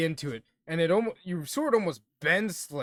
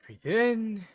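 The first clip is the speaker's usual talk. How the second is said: mock meditation breath; 4 semitones higher than usual. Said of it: "work on my meditation".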